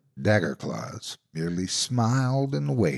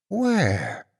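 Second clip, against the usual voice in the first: monster asking; 8 semitones higher than usual. A narrator's reading. Monster gropes in dark.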